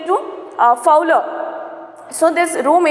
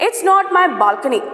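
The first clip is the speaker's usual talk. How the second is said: a touch of irritation, pitched up; irritated; 4 semitones higher than usual. Acted. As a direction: snap it out with mild irritation. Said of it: "said with the extreme irritation".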